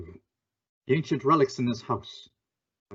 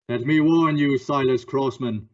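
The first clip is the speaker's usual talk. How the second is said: grave warning to the suspect; stern warning; 3 semitones higher, 4 dB louder than usual. Acted. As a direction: lean into the threat. Shadow threatens suspect.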